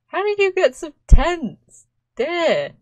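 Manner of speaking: high, loud exclamation at a game character; mock dismay. Player fussing over a tense Sim, in loud mock dismay. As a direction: exclaim it in playful, exaggerated dismay.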